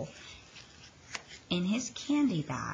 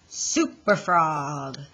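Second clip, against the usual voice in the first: heroic superhero voice; 3 dB louder than usual. Acted. Froggy imagines being a superhero.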